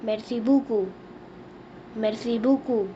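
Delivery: "merci beaucoup" with a falling "bo-KOO"; teacher modelling "merci beaucoup"; French pronunciation. Shown as a demonstration. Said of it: "We say thanks a lot in French".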